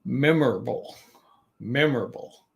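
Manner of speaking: "memorable" with weight on "mem", falling after; stress on first syllable. Shown as a demonstration. Teacher repeating a multi-syllable example, first syllable stressed. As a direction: lean on "MEM" in "memorable", let the rest drop. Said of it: "we emphasize the third syllable from the end".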